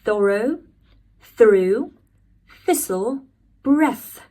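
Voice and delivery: thorough, through, thistle as a list with rising ends; teacher lists the words again; British TH words. Shown as a demonstration. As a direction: repeat the words for the class to copy. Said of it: "like that".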